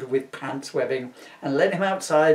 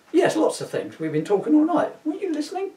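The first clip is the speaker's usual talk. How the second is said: electric villain; 13 semitones higher than usual. Acted. Electrode answering, high voice.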